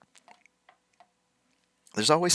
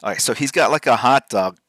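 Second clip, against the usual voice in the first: ordinary delivery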